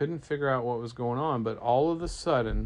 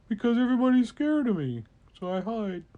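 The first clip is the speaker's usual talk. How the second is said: mock woe; 9 semitones higher, 3 dB louder, faster than usual. Dragon admits it hides.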